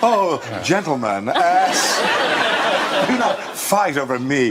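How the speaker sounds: badly faked Southern belle accent; flattered Southern belle, missing the accent; attempted Southern belle accent. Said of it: "supposed to be my Southern Belle accent".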